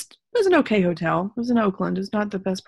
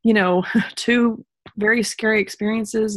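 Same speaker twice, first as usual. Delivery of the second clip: retold tearful fear; 4 semitones higher than usual. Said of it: "this fear kind of hitting me".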